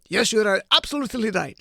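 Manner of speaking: badly faked Ukrainian accent. Commentator attempting Zelensky's reply, badly faked Ukrainian accent. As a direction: have a clumsy go at a Ukrainian accent. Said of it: "I'm not gonna do an impression of Ukrainian".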